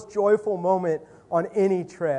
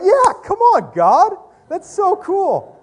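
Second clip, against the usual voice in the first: much higher and louder joyful shout, slowing at the end; excited cheer; 14 semitones higher, 11 dB louder, slower than usual. Retold or imitated. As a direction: cheer as if the prayer just came true. Hearing answered prayer, celebrating.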